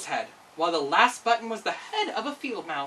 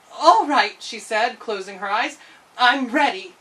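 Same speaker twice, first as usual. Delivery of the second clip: put-on louder brave girl; nervous girl agreeing; Dorothy; 3 semitones higher, 6 dB louder than usual.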